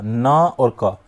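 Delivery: "नक" split into "ना" and "क", each with its own vowel; broken-up syllable. Shown as a demonstration. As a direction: say "ना", then "क" separately. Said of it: "नक को भी तोड़ दिया". ("ना" और "क" को अलग-अलग बोलें)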